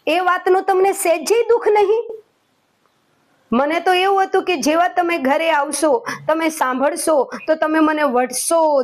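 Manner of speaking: wife's wounded, whiny protest; hurt wife. Acted. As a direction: complain he doesn't care about the necklace. Wife complains husband doesn't care.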